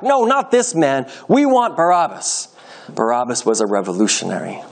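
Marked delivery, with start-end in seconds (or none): 0.0-2.5 high, drawn-out crowd cry without much volume; shouting back. A narrator's reading. Crowd rejects Pilate's offer of release, restrained shouting back. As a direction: call out a refusal like a crowd, slowly. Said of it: "they shouted back".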